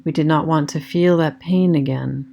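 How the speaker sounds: calm meditation voice with long pauses; guided meditation. Acted. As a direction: guide them gently inward, leaving space after each phrase.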